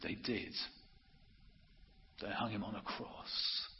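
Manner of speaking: softly voiced, gentle retold answer; gentle reply. Old lady gently answering the man behind her in the queue, gentle. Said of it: "she said gently".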